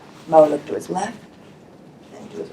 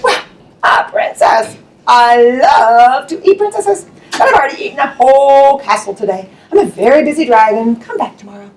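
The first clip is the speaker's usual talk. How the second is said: lightly voiced lazy dragon, slowed at first; a bored dragon brushing her off; a hint of a grand dragon. Dragon voice in read story.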